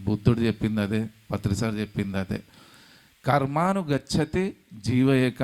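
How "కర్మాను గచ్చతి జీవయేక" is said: slow, measured chanting of the Sanskrit verse; slow scripture recitation. Shown as a demonstration. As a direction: recite the verse slowly, each word weighed. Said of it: "అంటే ఆ soul మన లెక్కలంతా". (నెమ్మదిగా శ్లోక పఠనం)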